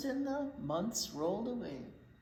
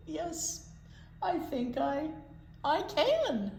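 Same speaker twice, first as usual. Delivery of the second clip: laughing yes; 6 semitones higher, slower than usual. Acted. Kevin happily agrees.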